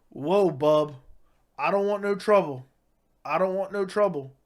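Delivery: scared backing off. Retold or imitated. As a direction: nervously wave off the fight, voice up.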